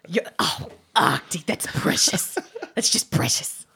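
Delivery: breathy vintage purr. Acted. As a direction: coo over him like a doting granny. Grandmother character voice.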